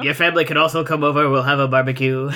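half-hearted fake French accent, not even trying; bad French accent. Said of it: "a bad impression of your bad French accent".

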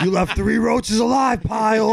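high-pitched hammed-up sergeant chewing out a recruit; mock drill sergeant. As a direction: play a drill instructor berating his private.

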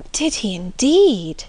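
put-on slow, delighted young girl; lightly voiced delighted girl; sparkling eyes. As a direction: ask it thrilled and wide-eyed. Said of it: "cried Marianne with sparkling eyes".

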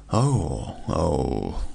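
falling surprised oh, oh; a startled cry dropping low; cried out. A narrator's reading. Vendor reacts to Christian seeing the hanged man, startled. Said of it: "cried the curiosity vendor".

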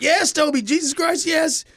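fed-up, pleading affirmation; exasperated. Retold or imitated. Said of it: "I'm like".

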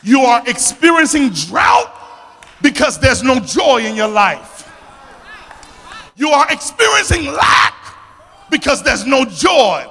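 full-voiced sermon delivery, key words stretched and punched; impassioned preaching. Real, not acted. Preacher telling the congregation why the harvest perished, impassioned and forceful. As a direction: preach it out, driving each phrase home.

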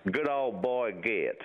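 a light try at a country accent; understated country-guy imitation; country accent attempt. Shown as a demonstration. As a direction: imitate a country guy, falling on the last word. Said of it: "let me try that".

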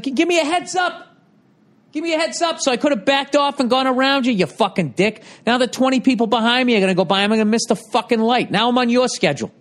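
high, heated mock outburst at a driver; high-pitched imitated road rage at a late-signalling driver; mock driver rant. Ranting at slow driver who signals late.

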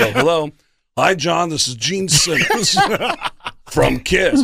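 lightly done, laughing at the end; phone greeting in a rock musician's voice; impression of a rock musician. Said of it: "That's how we communicate".

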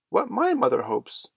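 put-on high, loud little-boy answer; twin answering. A narrator's reading. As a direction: pipe up loudly as a small twin.

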